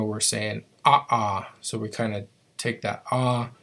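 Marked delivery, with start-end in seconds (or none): 0.0-1.5 ah cut off with a catch; "ah" halved by a glottal stop; glottal stop demo. Shown as a demonstration. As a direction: stop the "ah" short in the throat. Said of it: "when we say the word crow".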